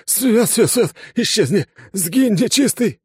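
high, loud panicked howling; terrified wail. A narrator's reading. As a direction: scream to ward off an evil spirit. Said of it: "возопил он на весь подъезд".

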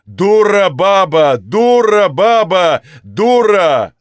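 loud, slow, thundering roar; old master bellows after the fleeing maid; booming bass shouts. Acted. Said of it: "бомбардировал её старик гулкими басовыми раскатами".

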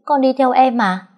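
high, loud startled reply; dumbfounded. A narrator's reading. Husband stunned by wife's question, high startled reply. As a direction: caught off guard, blurt it out. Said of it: "Long ngớ người".

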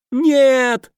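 very high, loud scream. A narrator's reading. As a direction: shriek in panic. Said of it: "заорал охотник". (очень высокий громкий крик)

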